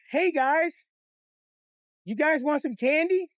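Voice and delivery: high, sugary coaxing stranger voice; sweet candy lady. Retold or imitated. Stranger in a car luring kids, high sugary coax.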